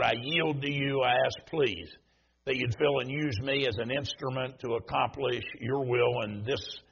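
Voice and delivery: hushed, earnest pulpit prayer. Acted. Preacher praying over the service with heads bowed, hushed.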